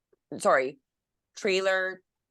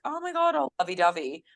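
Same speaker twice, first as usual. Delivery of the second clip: mock gushing; 7 semitones higher than usual. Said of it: "they're like".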